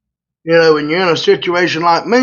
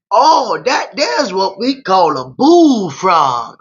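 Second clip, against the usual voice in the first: put-on Louisiana accent; 4 semitones higher, much slower than usual. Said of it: "do this Louisiana accent".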